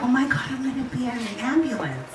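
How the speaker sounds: quick, giddy retold excitement; excited. Patient about to ride in an ambulance, excited. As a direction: rush it out with giggly delight. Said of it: "I was so excited".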